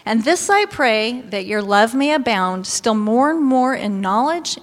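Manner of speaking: measured, solemn Bible reading; scripture reading. Acted. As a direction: read the verse like it's sacred.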